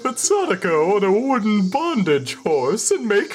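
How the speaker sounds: comically gay voice. Acted. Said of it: "the comically gay voice".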